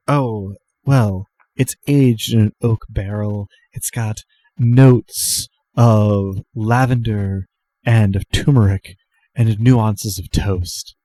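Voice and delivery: slow, savoring tasting-note recital; lightly voiced, deliberate drink expert; connoisseur bartender. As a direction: linger on each flavor like a sommelier. Jan shows off flavor notes.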